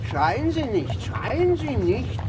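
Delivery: telling someone not to shout while shouting; drunken loud shush. Acted. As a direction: ironic drunk yell of "schreien Sie nicht". Drunk man shushing loudly.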